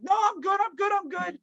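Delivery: high, quick reassuring brush-off; breezy brush-off. Retold or imitated. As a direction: wave them off while rushing past. Brushing off worried staff.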